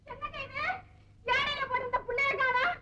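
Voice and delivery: put-on high, sobbing lament for the lost child; wailing lament. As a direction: wail it to the husband. Mother wails for lost child. (காணாமல் போன குழந்தைக்காக அழுகை)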